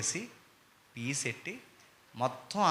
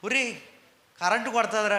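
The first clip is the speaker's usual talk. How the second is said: put-on warning child; 8 semitones higher, 4 dB louder than usual. Warning a child about current.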